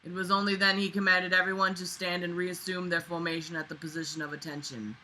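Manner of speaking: projected memoir narration, settling as it goes; reading aloud. A narrator's reading. Reading a basic training memoir aloud, projected narration. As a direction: read out the written account firmly.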